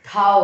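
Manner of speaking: Thou split off alone and stressed; the teacher isolates Thou before saying हथौड़ी; isolated syllable. Shown as a demonstration. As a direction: sound out the syllable Thou by itself. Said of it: "हस-, हथौड़ी".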